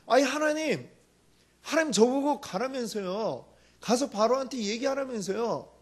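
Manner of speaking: Moses caught off guard, asking God what went wrong; flustered Moses. Retold or imitated. Moses complains to God about Pharaoh, mildly flustered. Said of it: "모세는 지금 아마 당황했을 거예요".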